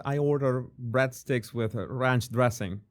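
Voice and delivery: Latino-accented American English attempt. Shown as a demonstration. Host trying the test sentence, Latino accent. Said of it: "Latino accent with that".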